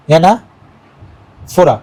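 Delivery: "অ্যানাফোরা" said very slowly, syllable by syllable; split into syllables. Shown as a demonstration. Teacher demonstrating the syllable breakdown to the class, slow and spaced. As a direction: stretch "অ্যানাফোরা" into its separate syllables. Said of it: "ধরো আমি করছি অ্যানাফোরা".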